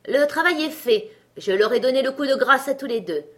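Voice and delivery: a cocky little tailor crowing his victory; boastful bragging. Acted. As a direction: puff yourself up and brag.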